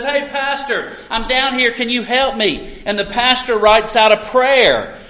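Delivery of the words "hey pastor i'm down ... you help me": higher-pitched retold call for help; mock shout. Trapped man calls up to a passing pastor, mock shout. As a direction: lightly act out calling up from below. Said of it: "and he shouts up and says".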